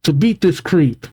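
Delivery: lightly voiced brave little boy; child crying out. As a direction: pipe up like a plucky child. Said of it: "Cullen cries out".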